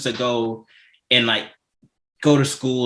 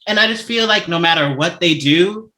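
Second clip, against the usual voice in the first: really frustrated; 6 semitones higher than usual. Real, not acted. Host venting about the show's unfair treatment, frustrated. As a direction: vent with raised pitch, stretching the grievances out. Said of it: "I'm so frustrated".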